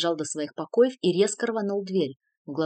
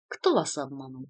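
lower, measured, calm question; sedate; 5 semitones lower than usual. A narrator's reading. Cardinal calmly questioning the agitated count, sedate. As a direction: ask it with composed dignity. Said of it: "степенно спросил".

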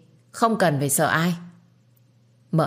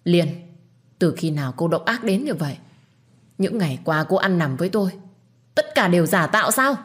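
angry. Acted. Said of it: "sau đó quát lớn".

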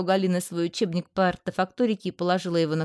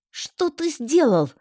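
higher, slow, stress on ты; barked question; 7 semitones higher, 3 dB louder, slower than usual. A narrator's reading. To the mischievous pet, a sharp bark. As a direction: demand it sharply, hitting ты. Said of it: "рявкнула я".

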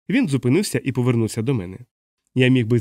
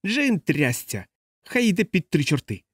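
голос п'яного чоловіка; 5 semitones higher, slower than usual. A narrator's reading. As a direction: curse in a raised-pitch drunken grumble. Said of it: "якийсь голос зауважив". (п'яне бурчання високим голосом)

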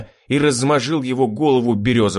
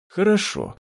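peaceable; 10 semitones higher than usual. A narrator's reading. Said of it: "уже миролюбиво проговорил я".

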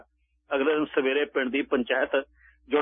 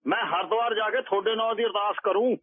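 pleading sadhu; 7 semitones higher than usual. A narrator's reading. Baba begs alms from women.

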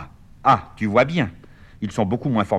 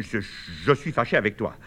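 slight stutter. Acted. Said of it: "il bégaye légèrement".

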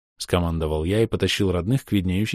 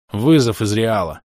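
puffing; 3 semitones higher, 6 dB louder than usual. Retold or imitated. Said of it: "— пропыхтел я".

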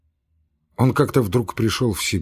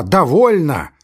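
high, louder final cry; angry cry; 5 semitones higher, 6 dB louder, slower than usual. Acted. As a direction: slam the door on the talk. Laevsky's final outburst.

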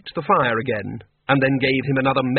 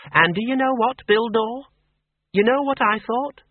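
put-on brisk old farm woman, pitched higher; a blunt countrywoman who knows more than she says; Miss Flitworth; 10 semitones higher than usual. A narrator's reading. Farm woman voiced in story.

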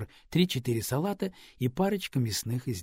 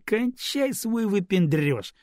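exasperated retort; 8 semitones higher, 3 dB louder, slower than usual. A narrator's reading. Man snapping at woman.

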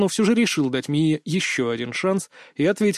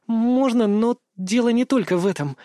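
put-on high, hesitant girl's voice; sighing; 6 semitones higher than usual. A narrator's reading. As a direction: admit it with a hint of a sigh. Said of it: "вздохнула она в трубку".

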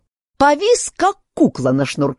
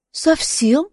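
put-on higher, girlish voice echoing the word; Alice's girlish answer; 10 semitones higher than usual. Alice answers the king in a high girlish voice.

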